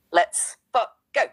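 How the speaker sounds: let's go yelled with full power; full chest. Real, not acted. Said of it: "let me run that back with the full chest".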